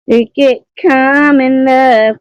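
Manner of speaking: high, slow mock Irish lilt; a slow, high, half-hearted Irish accent; attempted Irish accent. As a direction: try on a clumsy Irish accent. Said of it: "Oh, I can't do Irish".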